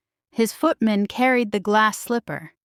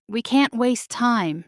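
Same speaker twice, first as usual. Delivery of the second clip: urging; 2 semitones higher than usual. Acted. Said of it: "she urged".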